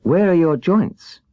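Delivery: put-on worried little girl checking on him; anxious. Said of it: "asked anxiously".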